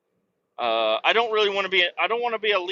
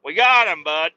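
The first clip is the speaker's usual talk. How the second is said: alien celebrating the catch; louder, pitched-up victory whoop; triumphant alien; 7 dB louder than usual. Pretend. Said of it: "we're gonna".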